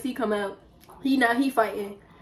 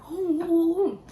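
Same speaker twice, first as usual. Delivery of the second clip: 1 aunties demanding; 6 semitones higher than usual. Retold or imitated. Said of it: "they're like".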